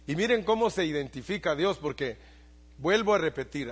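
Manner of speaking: loud, high fervent pulpit preaching; preaching at full force. Acted. Pastor preaching fervently to his congregation, loud and rising. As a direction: build the sermon to a ringing peak.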